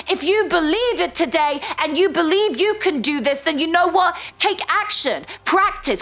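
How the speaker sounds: rally them up; bright rallying call; open voice. Shown as a demonstration. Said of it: "go into your chest voice, your head voice".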